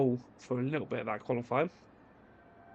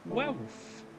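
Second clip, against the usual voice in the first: squeaky high; 8 semitones higher, 6 dB quieter than usual. Acted. Odd squeak on last result.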